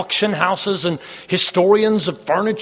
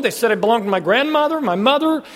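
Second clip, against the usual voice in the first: building excitement; 7 semitones higher than usual. Acted. Preacher builds excitement over find.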